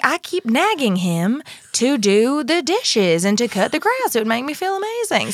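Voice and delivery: terrible put-on North Carolina accent. Quoting what she said; bad north carolina accent. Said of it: "we are doing a terrible example of that accent".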